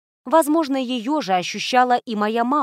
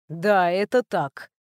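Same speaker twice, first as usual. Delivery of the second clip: embarrassed; 3 semitones lower, slower than usual. A narrator's reading. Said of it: "Неожиданно смутившись".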